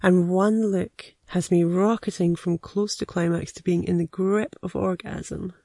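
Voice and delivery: intimate, measured erotic story reading; story narration. A narrator's reading. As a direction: read it like a private confession, savouring the phrases. Reads an erotic story aloud.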